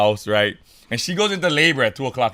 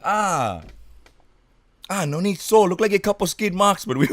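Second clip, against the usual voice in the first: higher, jokey doctor voice; clownish doctor; 9 semitones higher than usual. Retold or imitated. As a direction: play the joking doctor lightly. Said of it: "he's like".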